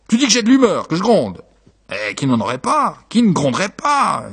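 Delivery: a touch of irritation; indignant retort. Acted. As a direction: grumble back in a marital quarrel. Husband and wife quarrelling.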